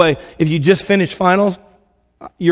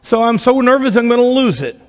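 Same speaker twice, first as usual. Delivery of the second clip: put-on five-year-old praying; 3 semitones higher than usual. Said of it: "If you're five years old and you're praying".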